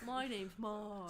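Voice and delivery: put-on slow, drawn-out Wisconsin accent; playful Milwaukee-area accent; imitated Wisconsin accent. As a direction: stretch the vowels in a mock Wisconsin accent. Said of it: "Mike's accent".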